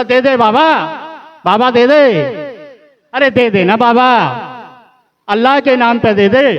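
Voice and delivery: a hammed-up loud alms cry; loud begging. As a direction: call out for alms like a pushy beggar. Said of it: "बड़ा तेज तेज बोल रहा था".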